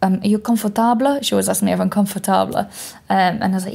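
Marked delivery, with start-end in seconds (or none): 0.2-1.2 lightly imitated Spanish accent, a little raised. Spanish masseuse checking on client, imitated Spanish accent. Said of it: "like, this beautiful accent".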